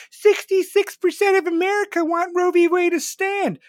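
high, loud mocking crowd-rouser; mock touting. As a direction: trumpet it in a put-on high voice. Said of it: "the Democrats touting this stupid bullshit".

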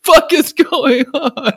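high, slow words through laughter; a shocked shopper cracking up; laughing mock outrage; laughing bewilderment.

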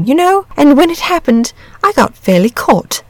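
lightly voiced dragon, lively swings in pitch; a hint of a leisurely, talkative dragon telling its story; easygoing chatty dragon.

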